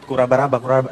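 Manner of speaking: a follower copying the chant, slowly and low; mock slow tongues. Congregant repeating after the pastor, hesitant mock chant. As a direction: haltingly mimic the strange syllables. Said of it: "Akhirnya nih orang ikut".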